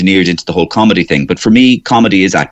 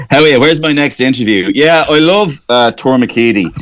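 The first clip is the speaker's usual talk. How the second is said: higher-pitched mock gushing interviewee; fatuous gushing; 5 semitones higher than usual. Guest parodying a fatuous answer about loving the place, glib gushing. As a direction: put on a glib, higher voice for the platitudes. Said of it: "it sounds, you know, fatuous sometimes to say".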